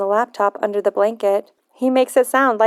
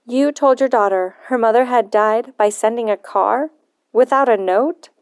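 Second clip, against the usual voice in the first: angry. Acted. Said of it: "But I'm angry".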